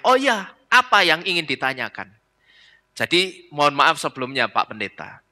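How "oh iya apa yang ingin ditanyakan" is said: feigned innocence. Acted. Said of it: "Tapi dia pura-pura tanya".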